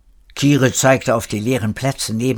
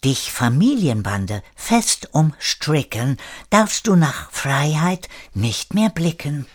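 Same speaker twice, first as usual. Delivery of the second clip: put-on English accent; 3 semitones higher than usual. Number fourteen suddenly starts to rhyme, English accent. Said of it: "mit englischem Akzent".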